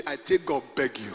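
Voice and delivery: low, chuckling pidgin read; laughing pidgin quote. Shown as a demonstration. Preacher quotes the pidgin Bible while laughing. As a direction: read it out amused, trying not to laugh. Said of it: "Pidgin English".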